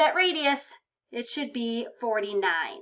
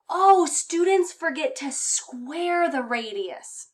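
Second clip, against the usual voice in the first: Molly voice; 5 semitones higher, 4 dB louder, slower than usual. Pretend. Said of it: "And this is Molly".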